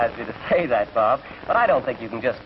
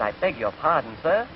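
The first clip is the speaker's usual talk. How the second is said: waiter. Acted. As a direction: lightly play a puzzled, formal waiter. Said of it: "Waiter said".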